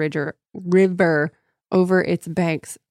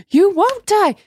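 high, loud mock ghost shriek; shrieking spirit parody; 14 semitones higher, 7 dB louder than usual. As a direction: ham up the desperate spirit.

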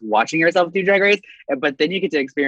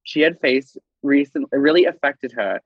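put-on British accent. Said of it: "That was a nice little accent there".

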